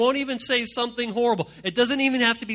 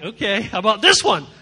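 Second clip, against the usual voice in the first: louder, threatening dad with a yelp after; mock stern dad; 8 dB louder than usual. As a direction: play a dad raising the belt. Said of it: "your dad's like".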